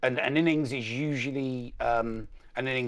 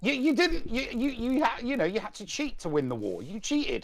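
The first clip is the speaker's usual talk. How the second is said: playful accusation; 13 semitones higher than usual. Pretend. Mock outrage over the war.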